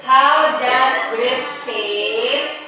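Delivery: drawn-out teacher model of the question; slow model question. Shown as a demonstration. Teacher slowly modelling the question for pupils. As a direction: spell it out slowly for the class. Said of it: "Ayo ulangi".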